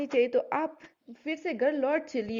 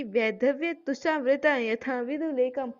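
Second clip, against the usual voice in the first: slow, measured verse recital; poem recitation; slower than usual. Acted. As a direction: chant each line slowly like a poem. Verse line recited again. (धीमा काव्य पाठ)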